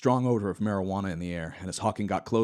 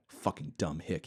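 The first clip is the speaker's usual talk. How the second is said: soft, slow muttered thought; inner thought; 3 semitones lower, 6 dB quieter, slower than usual. Acted. Hawking thinking about Clinton, soft and slow. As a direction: seethe it quietly to yourself. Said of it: "he thought".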